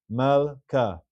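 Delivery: "Malka" in two syllables, mal-ka; shva nach reading. Shown as a demonstration. Teacher confirming the practice word, two-syllable demonstration. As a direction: say "Malka" with the l closing the first syllable. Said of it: "It's a shiva nach in the middle".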